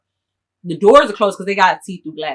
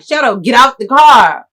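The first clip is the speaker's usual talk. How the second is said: yelling; 4 semitones higher, 9 dB louder than usual. Retold or imitated. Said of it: "I'm telling him, like".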